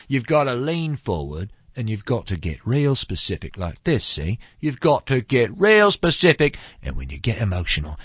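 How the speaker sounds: mock Michael Caine coaching. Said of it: "one of 'em doing his Michael Caine impression".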